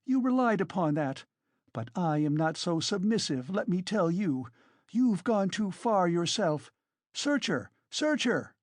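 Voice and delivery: high-pitched, agitated woman; indignant, overwrought challenge; frenzied tirade. A narrator's reading. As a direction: rail at the accusers in defiant outrage. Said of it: "in a frenzy".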